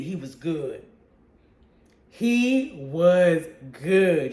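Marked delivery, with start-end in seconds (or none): 2.1-4.3 very slow, every word drawn out; slow savoring. Real, not acted. Reviewer savoring praise for the villain, drawn out very slowly. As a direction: savor each word of He was good slowly. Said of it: "repeats praise, drawn out".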